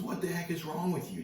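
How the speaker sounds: high-pitched mock bafflement; retold exasperation. Ex-convict demanding what is wrong with teller, high and incredulous.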